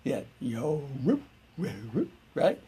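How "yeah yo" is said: soft, drawn-out Southern dog bark; Carolina-accented dog bark. Shown as a demonstration. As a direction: bark softly with a Carolina twang. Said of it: "North Carolina mixture, South Carolina, uh, accent".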